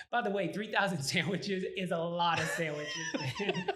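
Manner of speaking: laughing through the words; can't hold back a laugh. Real, not acted. Owner laughs recalling three thousand sandwiches.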